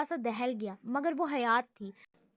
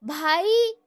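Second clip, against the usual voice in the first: loud, high yell for his brother; scream; 3 semitones higher, 8 dB louder, slower than usual. Acted. Brother screams for his brother across the office. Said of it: "نہیں چیخنے لگا".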